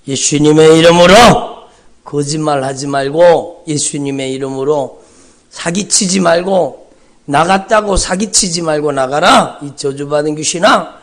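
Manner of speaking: commanding rebuke. Retold or imitated. Exorcist rebukes lying demon.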